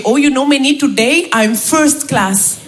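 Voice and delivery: put-on contented Indian-accented colleague, slow ending; Raj. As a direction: savour it blissfully in an Indian accent. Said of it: "Tous les jours, il me dit".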